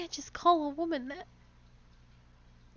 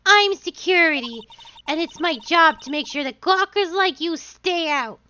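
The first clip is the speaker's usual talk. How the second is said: put-on loud, bossy old woman; 5 dB louder than usual. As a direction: shout like a pushy old lady guard. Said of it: "I have to do an old woman voice".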